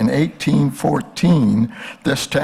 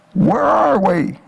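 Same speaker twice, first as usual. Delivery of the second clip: slow, higher mock yell down from above; yelled question; 8 semitones higher, 3 dB louder, much slower than usual. Lost balloonist calling down to a man in a field, slow mock yell. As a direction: call down a drawn-out question to the stranger below. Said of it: "And I yelled down and I said".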